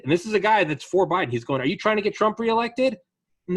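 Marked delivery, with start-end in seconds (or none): 1.6-3.0 high, loud mock yell at protesters; imitating an angry shop owner yelling; retold yell. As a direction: shout it up at the rioters. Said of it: "he's yelling at the protesters".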